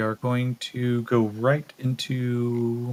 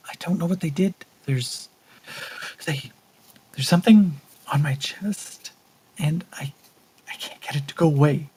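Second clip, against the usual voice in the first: put-on higher, shaky pleas from a scared girl; frightened young woman; 4 semitones higher than usual. The girl tells the soldier about the thing on her chest, higher and scared. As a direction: sound panicked about something on her chest.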